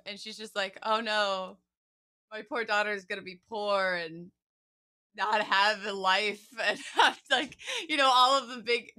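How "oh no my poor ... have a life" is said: mock dismayed mom. Mom hears her daughter wants to be a singer, loud mock dismay. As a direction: ham up a worried mom's wail.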